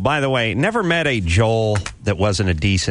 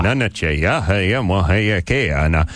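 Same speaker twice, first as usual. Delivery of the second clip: chanted fake-language gibberish; American Indian gibberish voice; 4 semitones lower than usual. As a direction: gibberish chant in a lightly put-on chief voice. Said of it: "I would yell at him in American Indian, uh, gibberish".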